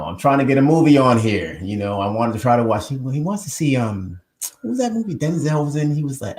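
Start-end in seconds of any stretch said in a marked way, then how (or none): 0.0-2.9 imitating his dad.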